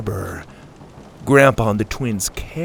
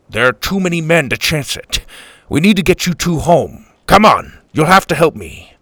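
lightly voiced, pressing grandpa; urgent Grandpa; 4 semitones higher, 4 dB louder than usual. Grandpa needing the twins' help to get home, urgent. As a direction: urge the kids on firmly, a little raised.

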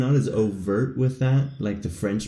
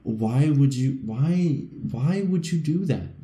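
higher, drawn-out disbelief; mock exasperation; 5 semitones higher, slower than usual. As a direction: plead slowly against senseless grammar. Acts out exasperation at German grammar.

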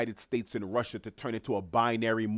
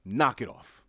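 dismissive; 4 dB louder than usual. Real, not acted. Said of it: "I'll say it again".

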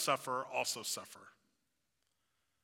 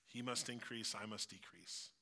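soft scripture quote; 5 semitones lower, 11 dB quieter than usual. Real, not acted. Quoting scripture softly.

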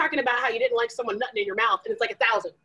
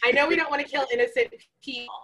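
supervillain speech. Pretend. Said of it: "my supervillain speech".

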